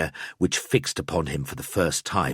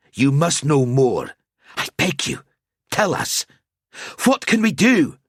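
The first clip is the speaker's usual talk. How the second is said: louder and higher, building to a plea; snapped then pleading; 7 semitones higher, 4 dB louder than usual. A narrator's reading. Gruber begs Al-Azir for answers, building louder. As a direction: rise from defiance into begging.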